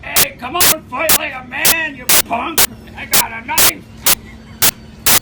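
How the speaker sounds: hammed-up goading of a cocky intruder; drunk challenger. Intruder waving a sword, taunting in a high mock voice. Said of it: "he grabs one off the wall and he goes".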